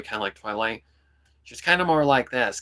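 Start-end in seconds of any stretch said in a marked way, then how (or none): 1.4-2.6 louder, pushed up into the nose; a nasal, slightly snarly tone; nasal Keqing voice. Shown as a demonstration. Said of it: "up in the nasal cavity".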